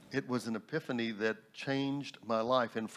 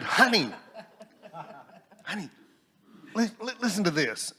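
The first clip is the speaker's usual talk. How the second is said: excited calling out; 8 semitones higher, 5 dB louder than usual. Retold or imitated. Nudging wife to share discovery.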